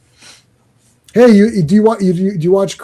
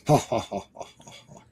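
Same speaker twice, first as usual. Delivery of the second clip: ha ha ha, quieter; flat spoken mock laugh; mock villain laugh; 5 semitones lower, 11 dB quieter, much faster than usual. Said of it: "Gladiator laughs".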